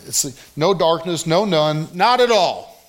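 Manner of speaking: no, none, not at all hammered one by one; triple negative stressed. Shown as a demonstration. Preacher showing the Greek triple negative, emphatic. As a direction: punch each negative harder. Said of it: "It's emphatic in the Greek New Testament".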